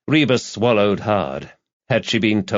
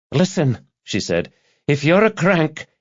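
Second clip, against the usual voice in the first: firm; 8 semitones higher than usual. Acted. Detective confronting caller.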